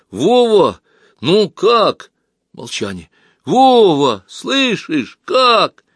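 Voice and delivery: high loud anxious call. Acted. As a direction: call down the tube, worried. Anxiously calling down the tube.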